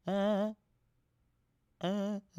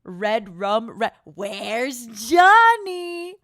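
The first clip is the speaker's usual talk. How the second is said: drawn-out, slow horror-movie line; slow, eerie movie villain voice; Shining quote; 5 dB louder, much slower than usual. Acted. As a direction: stretch it out like a creepy film villain. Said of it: "what is the line in The Shining".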